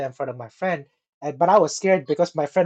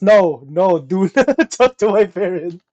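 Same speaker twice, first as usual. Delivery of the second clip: panicked plea; 7 dB louder than usual. Retold or imitated. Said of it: "It's like".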